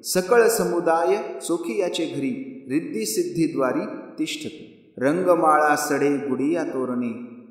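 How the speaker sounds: slow, drawn-out recital of devotional verse; measured abhang recitation. Acted. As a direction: recite it slowly, lingering on each line's end.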